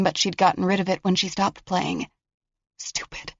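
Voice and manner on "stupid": barely voiced self-scold; whispered. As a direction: hiss it to herself.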